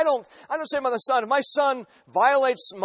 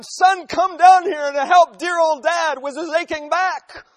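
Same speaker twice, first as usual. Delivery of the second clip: loud, slow call up the stairs; hollering up to son; 7 semitones higher, 7 dB louder, slower than usual. Retold or imitated. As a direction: holler up to the kitchen, drawn out. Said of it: "So I holler up at my son".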